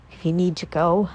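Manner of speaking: low, deflated voice that fades away; trailing off, defeated. Acted. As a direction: let the words die out in defeat. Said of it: "He lets his voice trail off".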